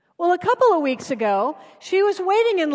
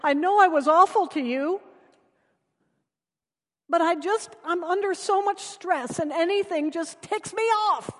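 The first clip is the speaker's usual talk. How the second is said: tearful apology; 5 semitones higher than usual. Retold or imitated. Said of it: "as she continued to cry".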